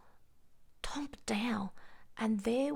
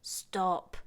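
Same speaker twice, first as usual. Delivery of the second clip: shouted stop; 3 semitones lower, 4 dB louder than usual. A narrator's reading. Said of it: "Then he shouted".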